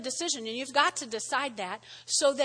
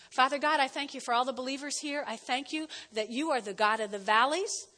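steady prayer voice; closing prayer. Acted. Pastor praying over the believers, reverent. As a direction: pray over them.

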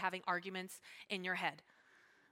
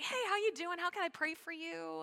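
higher-pitched caring hello; friendly greeting; 5 semitones higher than usual. Retold or imitated. Calling someone who may dislike her, friendly greeting. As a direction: greet them sweetly with a lifted voice. Acts out friendly phone call.

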